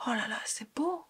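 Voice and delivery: breathless whispered admiration; soft whispered oh là là; awed whisper. Real, not acted. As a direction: whisper it, dazzled by the colour. Admiring blush on her cheek.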